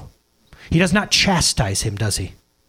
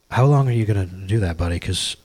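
normal calm voice; 11 semitones lower, 4 dB quieter than usual. Retold or imitated. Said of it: "in a normal voice".

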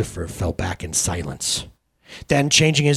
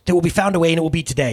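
Jesus voice; 8 semitones higher, 5 dB louder, much faster than usual. Acted. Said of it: "Jesus says this".

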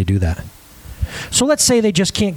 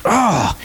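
acted groan of dismay; mock-upset "ugh". Boy lies on bed over summer school, upset groan. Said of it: "like, upset".

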